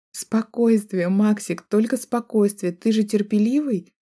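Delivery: tipsy teasing with a laugh; giggly drunk. Acted. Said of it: "Смеясь, выдаю я заплетающимся языком". (пьяно хихикая, заплетающимся языком)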